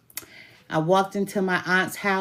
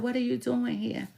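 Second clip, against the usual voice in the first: higher, lightly voiced aunt; a hint of a surprised aunt; aunt's voice; 6 semitones higher, 5 dB quieter than usual. Aunt surprised at her return.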